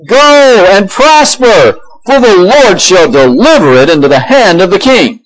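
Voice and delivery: mock-solemn, drawn-out high prophecy; sarcastic. Micaiah answers the king's battle question, sarcastic. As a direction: stretch out "Go and prosper" high, with hidden irony. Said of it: "Micaiah does it in a sarcastic".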